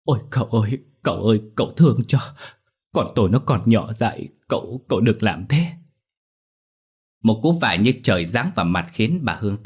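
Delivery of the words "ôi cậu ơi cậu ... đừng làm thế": kneeling mother pleads, fast and urgent; begging. Acted. Mother kneels before the master, begging. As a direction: plead for your child's sake. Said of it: "quỳ lại van xin".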